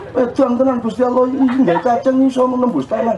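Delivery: father retelling his son's amazement, lightly voiced; awed. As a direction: retell the boy's marvel lightly.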